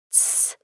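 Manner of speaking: шипящее «тссс» почти беззвучно; приложив палец, шикнуть; тихое шипение «тссс». A narrator's reading. Гумгам велит молчать. (тихое «тссс»)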